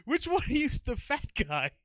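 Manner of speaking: loud, high-pitched shout to a group; cop calling out. Retold or imitated. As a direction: holler the question across a parking lot.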